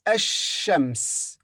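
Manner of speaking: Ash-shams with silent lam, doubled sh; ash-shams, l silent, sh held; Arabic ash-shams. Shown as a demonstration. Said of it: "This lam is silent".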